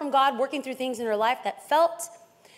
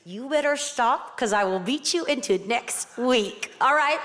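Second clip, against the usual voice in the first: mom through gritted teeth; 3 semitones lower than usual. Retold or imitated. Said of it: "grit through her teeth".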